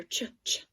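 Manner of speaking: "Ch, ch" as two short, unvoiced bursts; isolated digraph sound. Shown as a demonstration. Teacher sounds out the first digraph of chimney, isolated "Ch" sounds. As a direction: sound out "Ch" on its own, twice. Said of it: "listen to that word and see what we hear".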